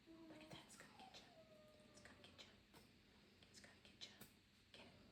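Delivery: very soft, playful whisper; hushed toy-chase tease; teasing whisper. Real, not acted. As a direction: whisper to a puppy, egging it on.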